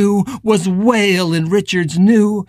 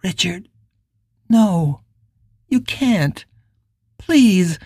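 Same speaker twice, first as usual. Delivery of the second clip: gentle; 2 semitones higher, slower than usual. A narrator's reading. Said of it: "She just said, gently".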